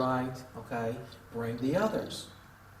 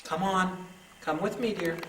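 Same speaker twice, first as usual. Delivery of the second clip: sweet coaxing; 4 semitones higher than usual. Real, not acted. Coaxing a spirit to follow.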